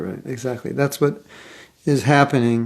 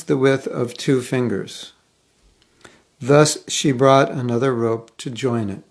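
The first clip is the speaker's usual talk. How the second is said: reading voice. Shown as a demonstration. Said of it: "I will put on my reading voice".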